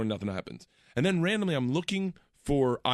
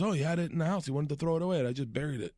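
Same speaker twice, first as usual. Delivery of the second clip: badly imitated gardener's accent, softer at the end; horrible Gabriel accent; 5 dB quieter, faster than usual. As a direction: put on a clumsy accent as the old gardener. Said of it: "I'm doing a horrible Gabriel accent".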